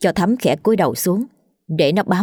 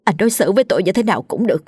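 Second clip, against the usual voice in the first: angry outburst; 4 semitones higher, faster than usual. A narrator's reading. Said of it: "hàm răng nghiến lại".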